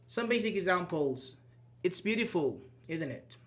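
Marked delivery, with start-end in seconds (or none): 1.8-3.4 tag "isn't it" with a falling tune. Shown as a demonstration. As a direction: let "isn't it" drop at the end. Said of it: "Pay attention to the intonation".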